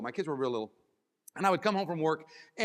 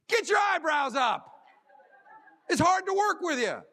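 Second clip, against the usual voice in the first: loud, higher and slow; emphatic command; 8 semitones higher, 5 dB louder, slower than usual. Acted. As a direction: drill it into them. Coaching the audience.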